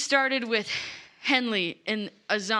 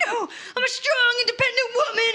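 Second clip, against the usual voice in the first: higher, laughing mock-defiant declaration; laughing defiance; 12 semitones higher, faster than usual. Lila shaking off the party, laughing and defiant. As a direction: proclaim it through giggles.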